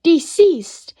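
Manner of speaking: loud, high shout; shouted command. Retold or imitated. Shouting at the yip-yik to let go, loud and high. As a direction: bark it at the creature to let go. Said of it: "I shouted".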